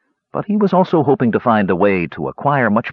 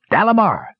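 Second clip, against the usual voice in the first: higher call to someone up the trail; 12 semitones higher than usual. Acted. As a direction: call out across the river bank. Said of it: "the hermit called from the trail".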